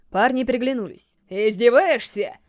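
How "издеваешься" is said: mock roar. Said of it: "Заревел один из них".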